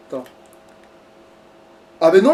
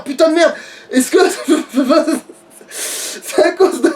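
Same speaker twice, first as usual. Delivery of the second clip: higher, laughing outraged rant; mock outrage; 4 semitones higher than usual. Real, not acted. Gamer ranting at the game, laughing in outrage. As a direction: protest like a wronged demon lord.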